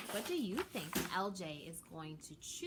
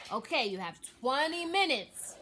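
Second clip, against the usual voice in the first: mild narrated yell; 6 semitones higher, 8 dB louder than usual. A narrator's reading. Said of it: "yelled Chef".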